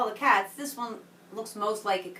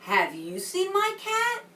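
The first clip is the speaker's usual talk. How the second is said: put-on boy asking; 10 semitones higher, 3 dB louder, slower than usual. Boy asks about lost cat.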